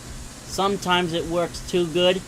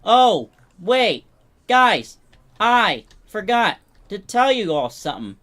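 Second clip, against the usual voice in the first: excited call-out; 4 semitones higher, 7 dB louder than usual. Real, not acted. Sudden announcement to the group.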